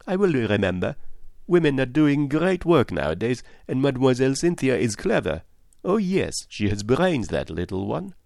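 lightly voiced, approving investigator; approving detective Poirot. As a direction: praise with lively rises and falls.

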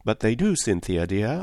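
sincere and reassuring; mean every word to comfort her; a touch of earnest warmth; earnestly. Acted. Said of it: "I said earnestly".

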